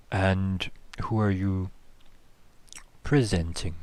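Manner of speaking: slow, wet, methodical creature voice. Acted. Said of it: "a kind of very wet voice".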